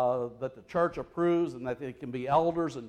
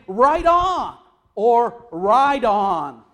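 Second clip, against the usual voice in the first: cheering crowd; 5 semitones higher, 11 dB louder, much slower than usual. Retold or imitated. Crowd cheering Jesus, retold.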